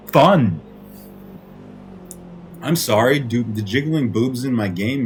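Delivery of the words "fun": furious punch on the last word, louder; real exasperation landing hard on one word; angry emphasis. Real, not acted. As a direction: spit the word out in real anger after a long pause. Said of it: "I get so fucking angry".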